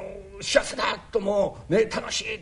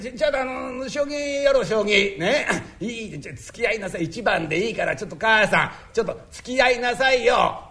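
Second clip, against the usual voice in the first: husband voice; 3 semitones higher than usual. Acted.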